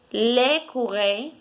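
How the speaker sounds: L'écureuil drawn out slowly, French r; slow repeat. Shown as a demonstration. Teacher repeating L'écureuil slowly for the class. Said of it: "se pronuncia como".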